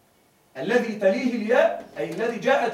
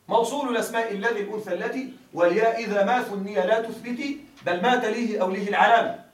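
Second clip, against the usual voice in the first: verse recitation. Acted. Teacher recites the verse to his students, measured and chanted.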